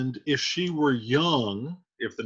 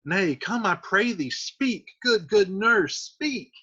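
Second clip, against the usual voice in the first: Juliet begging, pitch climbing on speak; plead, pushing higher each time; mild urgent young girl; 4 semitones higher than usual. Acted. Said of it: "Juliet said".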